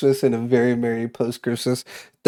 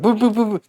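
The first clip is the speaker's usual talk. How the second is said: quick high-pitched honking boops; imitated car horns; 8 semitones higher, faster than usual. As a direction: mimic impatient drivers honking. Imitates other drivers' honking.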